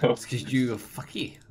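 oddly said, a hint of goblin. Real, not acted. Friend teasing his mate, accidentally goblin-like. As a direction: let it slip out in a weird goblin way. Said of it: "I said like a goblin".

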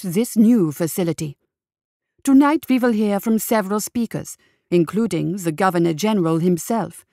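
put-on old-time radio host on air, a touch brighter; radio announcer. Radio host Frederick broadcasts the gala live to listeners, announcer read.

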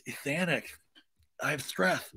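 soft, hushed confession, voiced; mock near-whisper, softened; imitated whisper. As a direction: say it small and secretive. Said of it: "Schwartz whispers".

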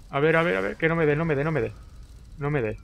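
high, tense run of words; anxious gamer under attack; nervous pleading. Real, not acted. Dodging an enemy's attack in game.

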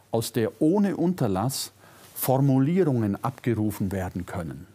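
normal talking voice

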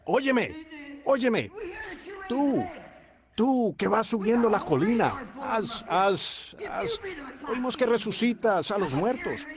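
lightly acted challenge, calling someone out; heckling priest. Priest calling up to Jesus on the hill, heckling challenge. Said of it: "oyó al sacerdote que decía".

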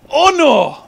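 loud high "oh no"; hammed-up shocked cry. Student reacting to the teacher's plight, loud mock alarm. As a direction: play it big and shocked.

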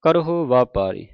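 slow, measured Gurbani reading; measured devotional recitation; scripture recitation. Acted. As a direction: recite each phrase deliberately, drawing out the vowels.

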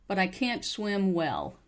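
"can't" stressed with full ah vowel; clear, whole-vowel "can't". Shown as a demonstration. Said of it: "can't is usually pronounced correctly".

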